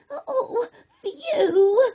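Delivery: high relieved laugh; a little crab laughing off a close call; chuckling with relief. A narrator's reading. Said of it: "Snippy chuckled".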